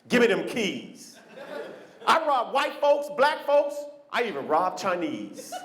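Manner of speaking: lightly voiced prison poet, slow; inmate reciting poem. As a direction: recite the rhyme with swagger. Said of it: "he's like".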